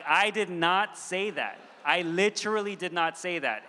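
emphatic, word-by-word mock protest; mock screaming. Dad protesting to his five-year-old boy, mock exasperated shout. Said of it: "screaming at my five-year-old boy".

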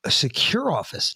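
"secure" leaned on and stretched; stress on secure. Retold or imitated. Co-host quoting the clip back, stress on "secure". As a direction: put the weight on "secure". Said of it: "Notice how he emphasized".

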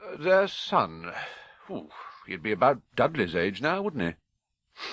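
strained offhand tone, slowed; forced casual. Acted. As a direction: fake nonchalance. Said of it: "as casually as he could".

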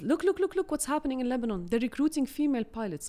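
high mock-excited friend; sarcastic. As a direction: tease her with fake excitement. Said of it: "he started to be sarcastic".

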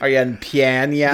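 hammed-up Irish brogue; thick stage Irish accent; over the top irish accent. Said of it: "I am in pain listening to your accent".

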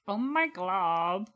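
put-on slow drawn-out valley girl "Oh my God". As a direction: stretch it like a bored valley girl. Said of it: "Adventure Time one".

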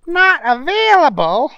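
shocked high question; disbelieving. Acted. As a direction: ask in outraged disbelief. Booger outraged at pilot.

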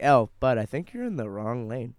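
imitating a casual, unbothered heads-up; as calm as possible. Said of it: "Literally said it like that".

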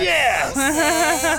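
high-pitched excited mock yes; hammed-up excitement; two exclamation points. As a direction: shout it like a text with exclamation marks. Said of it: "Two exclamation points".

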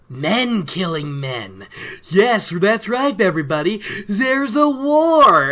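slow build to a high, loud reveal of war; a hammed-up peddler unveiling terrible news; ominous announcement. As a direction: draw it out, then spring the last word on the crowd. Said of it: "And he's like".

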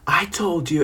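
high-pitched mimicry of an upset client; retold told-you-so. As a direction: imitate someone saying I-told-you-so. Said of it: "she's like".

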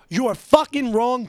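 loud, high, slow accusation; retold angry shout. Worker walking back to berate his boss, retold shouting. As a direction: lay into him, drawing it out. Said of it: "the last thing I shouted".

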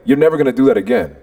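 firm, mildly barked order; retold barking. Man forbidding the boy to hit again, mildly barking. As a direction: lay down the law with restrained force. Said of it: "literally barking in his ear".

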